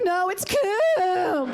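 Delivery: drawn-out, high seductive reply; slow sultry ad line. Retold or imitated. Woman in the ad answers her friend, slow and seductive. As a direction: savor the product name slowly. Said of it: "call it something fancy".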